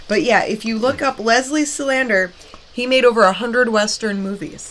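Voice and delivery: talking while chewing; mouth full. Real, not acted. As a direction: speak through a mouthful of snack. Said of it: "talking with your mouth full right now".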